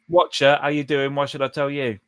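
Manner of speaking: offhand southern Abyssal slang; lightly put-on southern Abyssal accent. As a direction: translate the demon in a casual southern accent. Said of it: "I see you have a southern abyssal accent".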